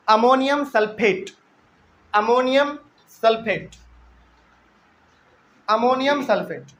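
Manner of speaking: अमोनियम सल्फेट said slowly, then अमोनियम and सल्फेट broken apart; slow dictation. Shown as a demonstration. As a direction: spell out the name slowly so the class can write it down. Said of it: "ten number सवाल लिखिए आप". (धीरे-धीरे रुककर लिखवाना)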